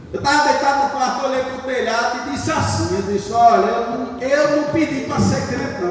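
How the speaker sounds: rising to a loud, high angry shout; angry outburst at God. Retold or imitated. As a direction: complain furiously, building to a yell. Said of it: "E com raiva". (gritando com raiva)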